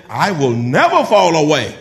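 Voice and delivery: loud, bold declaration at normal pitch; emphatic, bold. Acted. Preacher voicing Peter's vow to Jesus, loud and emphatic. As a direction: declare it boldly, hitting NEVER hard. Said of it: "Peter said so emphatic, bo-, so boldly".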